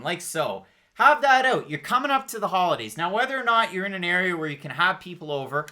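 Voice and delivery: upbeat sponsor read, salesy pitch. Acted. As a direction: sell it like a podcast ad. Host reads a sponsor ad.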